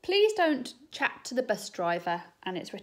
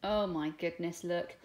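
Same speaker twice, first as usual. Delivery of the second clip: plain reading voice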